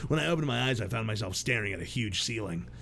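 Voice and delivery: low, brooding narrator voice; story narration. Acted. Reads the protagonist's narration.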